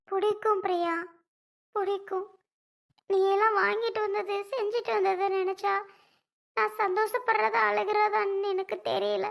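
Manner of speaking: high, tremulous voice near tears, overjoyed; happy tears. Acted. Moved sister-in-law thanking Priya, through happy tears. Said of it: "ஆனந்த கண்ணீர் தான் இப்போதைக்கு வருது".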